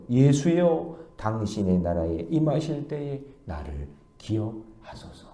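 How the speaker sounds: soft, slow humble petition; pretty, reverent plea. Retold or imitated. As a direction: quote it as a gentle, drawn-out prayer. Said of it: "얼마나 말이 예뻐".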